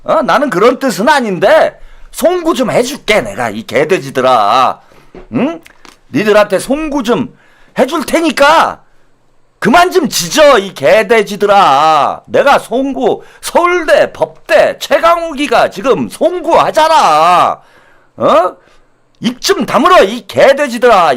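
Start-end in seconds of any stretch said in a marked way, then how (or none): 0.2-3.2 mock contempt. Mock politician insulting the public. 3.2-4.8 low mock insult. 6.1-10.6 mock arrogant official sneering at the public; mock contemptuous apology. Mock politician insulting the public. 10.6-12.2 slow mock insult. Insult repeated slowly. 12.3-21.1 mock elite politician telling the public to shut up; mock arrogant sneer. Mock politician bragging and insulting.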